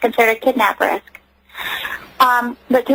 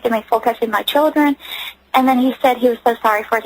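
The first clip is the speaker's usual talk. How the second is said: usual speaking voice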